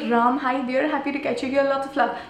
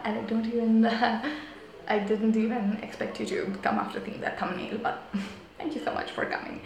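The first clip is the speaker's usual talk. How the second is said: hushed voice; 6 dB quieter than usual. Real, not acted. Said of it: "that's why I'm whispering".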